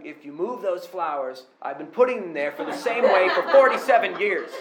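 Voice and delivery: hammed-up grumpy church elder; mock old-timer scolding. Preacher mimics church elder guarding flowers, mock scold. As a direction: play the territorial pew-sitter warning you off.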